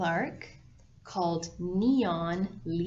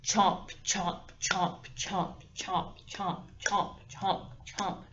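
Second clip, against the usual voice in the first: snapping teeth; slower than usual. Acted. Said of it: "goes like this".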